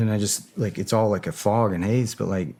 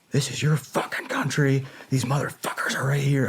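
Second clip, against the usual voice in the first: higher, urgent rallying cry to troops; Patton-style rallying; 6 semitones higher than usual. Retold or imitated. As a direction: fire them up like a general. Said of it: "going straight up Patton speech on 'em".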